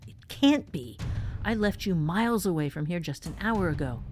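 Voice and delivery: shocked cry. Acted. Woman sees the cat returned.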